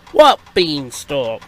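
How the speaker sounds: slow, drawn-out WHAT BEANSTALK with a falling end; slow baffled query; baffled question. Acted. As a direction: ask it slowly, utterly puzzled. Friend asks again, slower, falling.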